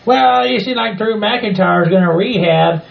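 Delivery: a lightly voiced rowdy Southern hillbilly; hint of a brash country bumpkin. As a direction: play the crude hillbilly guest. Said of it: "Mister Hillbilly Bob Joe".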